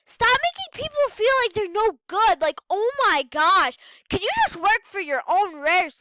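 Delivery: loud, high-pitched exasperated plea; upset scolding. Real, not acted. Vlogger scolds scammers over a friend, exasperated.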